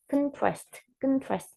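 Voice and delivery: conTRAST, second syllable stressed; quick con, weight on TRAST; verbal stress. Shown as a demonstration. Teacher showing the second tone, conTRAST stressed at the end. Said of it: "we have to stress in the, a second tone".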